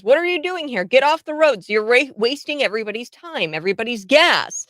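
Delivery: irate bystander impression. Host quoting a Brit berating road blockers, mock indignant. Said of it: "and he says".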